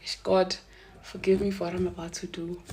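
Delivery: soft, hushed mock prayer. Praying to God before confronting her friend, hushed. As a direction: ask God's pardon under your breath.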